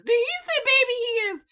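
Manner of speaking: high, loud incredulous question; disbelief. Real, not acted. Reacting again to baby hairs, high and disbelieving. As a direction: ask it like you can't believe it.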